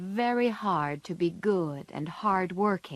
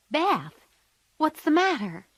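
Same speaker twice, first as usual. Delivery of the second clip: high, loud alarmed cry; 9 semitones higher, 4 dB louder than usual. A narrator's reading. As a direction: call out in alarm to a sick sister. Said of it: "cried Joe".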